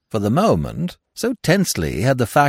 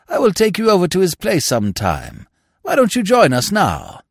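lightly voiced rambling lord; chatty, sociable lord with lively swoops in pitch; Lord Emsworth; 4 semitones higher, 3 dB louder than usual. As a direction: ramble on amiably, lightly in character.

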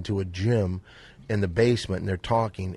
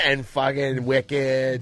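put-on Boston accent; much slower than usual. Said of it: "his Boston accent".

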